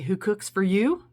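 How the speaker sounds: lightly voiced owl call, words sung out; a hint of an owl asking who cooks for you; barred owl call. Telling viewers what the owl says, lightly voiced owl call. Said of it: "likes to say".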